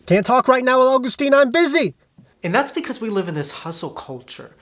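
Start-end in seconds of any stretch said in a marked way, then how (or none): 0.1-2.0 high, loud hurried brush-off; busy friend brushing off. Retold or imitated. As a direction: cut the call short, much higher and louder. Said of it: "they would probably respond like this".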